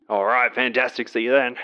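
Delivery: put-on dubious Greek accent signing off; hammed-up, unconvincing Greek accent; bad Greek accent. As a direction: sign off in a botched Greek accent. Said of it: "I intend on doing this accent".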